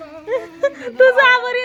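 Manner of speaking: slow, hard laughter that sounds like crying. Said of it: "हसताय का, रडताय तेच कळत नाही".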